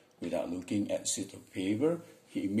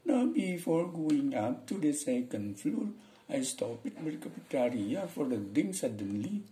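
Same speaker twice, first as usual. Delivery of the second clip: slow, high-pitched mock Indian English; demonstrated Indian intonation, high and slow; Indian accent; 6 semitones higher, slower than usual. Shown as a demonstration. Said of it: "Orang India nih".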